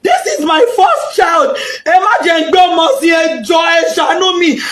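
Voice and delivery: begging. Retold or imitated. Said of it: "begging doctor".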